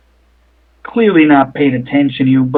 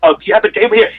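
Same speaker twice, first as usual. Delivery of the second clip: higher fussing concern; doting bruiser; 4 semitones higher than usual. Acted. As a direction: coo over her like a worried oaf. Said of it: "He's like".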